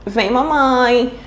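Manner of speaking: put-on "Vem mamãe" slow, like a small child; drawn-out childlike "Vem mamãe"; toddler phrase. Shown as a demonstration. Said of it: "Por exemplo". ("Vem mamãe" devagar, como criança)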